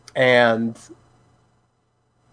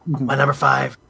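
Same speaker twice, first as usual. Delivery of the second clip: vocal fry. Shown as a demonstration. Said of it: "Gotta turn up the vocal fry a little bit".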